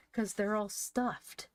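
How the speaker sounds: decided. A narrator's reading. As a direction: spell it out firmly. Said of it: "said Van decidedly".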